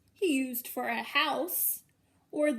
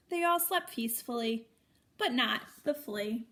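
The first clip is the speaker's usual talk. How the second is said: sing-song storybook reading, each line lifted; reading to children. A narrator's reading. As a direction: read it like a bedtime picture book for little ones. Repeated refrain read with children.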